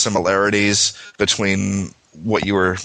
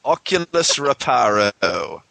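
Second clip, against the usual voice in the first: drawn-out, slow mock English accent; terrible English accent. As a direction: put on a bad English accent, slowly. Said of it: "such a terrible English accent".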